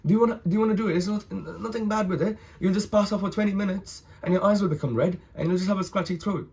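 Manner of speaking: high-pitched, pushy salesman patter; dealer's eager reassurance. Retold or imitated. Younger guy pushing doke on the boys, high eager reassurance. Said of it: "He's like".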